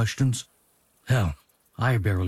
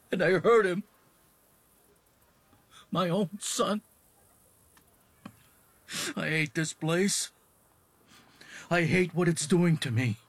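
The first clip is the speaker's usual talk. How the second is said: higher, strained and soft, close to tears; a father rising into anguish over hitting his son; despairing father; 7 semitones higher, 4 dB quieter than usual. Acted.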